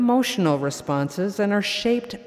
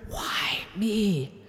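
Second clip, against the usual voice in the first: whispered; 8 dB quieter than usual. Acted. Mother at the restaurant table, whispering to herself. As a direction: whisper under the breath. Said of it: "I whispered".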